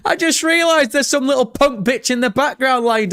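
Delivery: high-pitched, through real laughter; amused, high and giggly; laughing. Real, not acted. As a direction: burst out laughing while explaining. Laughs at spotting something on screen.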